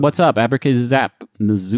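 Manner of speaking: understated, offhand wizard; low-key wizard, no theatrics; casual everyday wizard. Acted. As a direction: toss off spells like a regular guy. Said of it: "not every wizard sounds like that".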